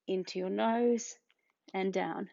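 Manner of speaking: whispered cue, unvoiced. Shown as a demonstration. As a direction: breathe the words out in a whisper. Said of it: "instructor cueing the exercise".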